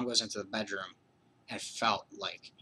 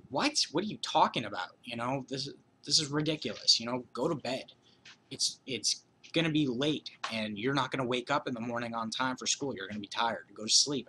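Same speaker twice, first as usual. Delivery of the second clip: higher-pitched imitation of an exasperated mom; annoyed mom; 3 semitones higher than usual. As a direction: scold the kid to go to bed. Annoyed mom voiced in story.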